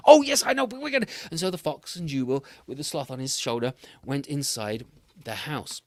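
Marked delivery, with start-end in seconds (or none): 0.1-1.1 higher, louder English gentleman; a jolly English host offering tea; posh English fox voice; English accent. Acted. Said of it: "He, he came from England".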